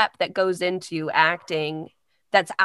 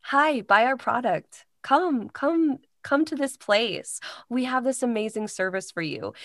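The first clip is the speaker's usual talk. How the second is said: higher-pitched, casual commercial pitch; inviting pitch to a pal, not announcer-like; friendly conversational ad read; 4 semitones higher than usual. Shown as a demonstration. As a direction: sell it like a friend would. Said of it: "your friend, conversational".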